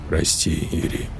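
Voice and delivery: muttered. Acted. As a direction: mutter it under your breath. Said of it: "пробормотал Марсель".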